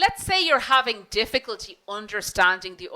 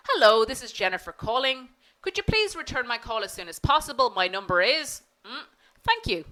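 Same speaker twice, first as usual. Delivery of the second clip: courteous, a touch brighter on the request; super polite phone voice. Shown as a demonstration. Jennifer leaves a voicemail asking for a callback, politely. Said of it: "I'm being super polite, nice phone voice".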